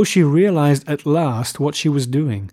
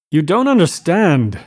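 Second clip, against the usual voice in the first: higher, louder, slightly panicked; touch of panic; 4 semitones higher, 5 dB louder than usual. A narrator's reading. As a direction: protest with rising alarm. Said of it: "with a touch of panic".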